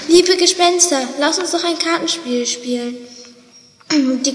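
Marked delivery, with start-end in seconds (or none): 0.1-3.0 brave. Acted. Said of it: "Er richtete sich mutig auf und meinte".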